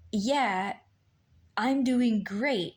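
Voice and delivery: slow, mildly imitated husband saying all is fine; imitating husband. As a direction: draw it out calmly, as he did. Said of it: "say it like that".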